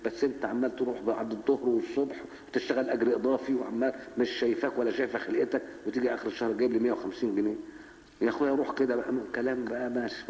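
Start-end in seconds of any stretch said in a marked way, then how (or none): 0.1-7.6 nagging wife. Retold or imitated. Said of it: "تقول له".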